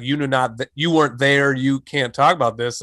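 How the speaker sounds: put-on old man's German accent, lightly done; a hint of a stern German accent. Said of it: "in a German accent".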